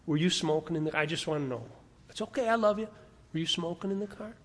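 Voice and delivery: soft, careful, non-accusing question; gentle questioning. Acted. Elder asking his pastor about smoking, soft and reassuring. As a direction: ask it quietly, with reassurance. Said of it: "loving, affirming qualifications and then say".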